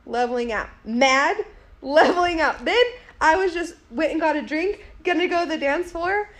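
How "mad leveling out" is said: mounting anger. Retold or imitated. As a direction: step it up, getting madder. Second step of retold mounting anger.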